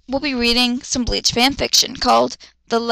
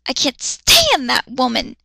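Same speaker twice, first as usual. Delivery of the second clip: spoke angrily. Acted. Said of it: "he spoke angrily".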